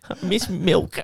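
soft, slow laughing whimper; mock babyish son. Friend mocks the jailed son, soft and babyish. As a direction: whine it like a toddler.

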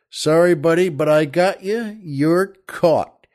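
cocky, emphatic game warden; saucy. Acted. Game warden telling a boater he's caught, saucy. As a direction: rub it in with saucy relish. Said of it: "in his very saucy way".

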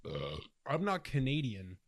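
slow, sniffy mock complaint; mock snooty Quebecer. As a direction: drawl it like a snob. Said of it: "were to say".

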